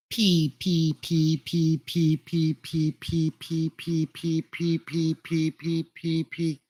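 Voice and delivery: short puffed P, P into the mic; popping P sounds. Shown as a demonstration. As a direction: spit out "P, P" to show mic pops. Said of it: "You hear that popping?".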